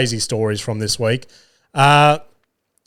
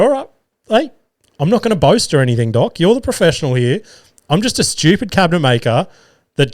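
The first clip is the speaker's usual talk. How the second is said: mock humble; 2 semitones higher than usual. Patient sarcastically humbling himself before the doctor, mock modest. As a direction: lay the fake humility on thick.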